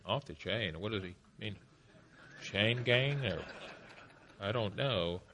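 confused audience. Retold or imitated. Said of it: "Some of you look at me".

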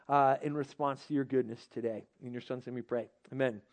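prayer. Acted. Leads the opening prayer.

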